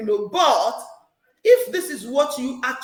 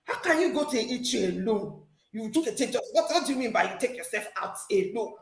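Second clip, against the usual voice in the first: scolding church mommy. Retold or imitated. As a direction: imitate a church mother scolding a young woman. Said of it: "She scolded me like a child".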